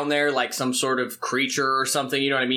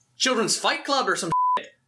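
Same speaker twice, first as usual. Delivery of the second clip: put-on Scottish accent, spoken at a raised pitch; 9 semitones higher than usual. Role-play player voicing a character at the cellar door, in a scottish accent. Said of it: "I like that you went Scottish".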